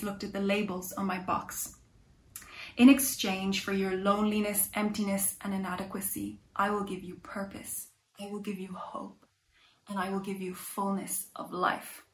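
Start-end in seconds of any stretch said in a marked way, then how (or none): 2.8-12.0 soft, steady and kind, dropping to a near whisper; calm stranger's voice. Acted. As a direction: speak gently, as someone who wants nothing back. The shop man speaks.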